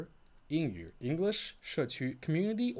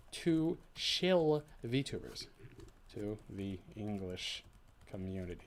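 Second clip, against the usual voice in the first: slow careful reading; 4 semitones lower, 3 dB quieter, slower than usual. Shown as a demonstration. Reading her translation slowly.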